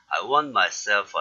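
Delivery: "want" said as "wan", no final T; dropped T. Shown as a demonstration. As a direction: glide from "wan" straight into "myself". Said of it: "그때 오면 하지 마세요, 그냥".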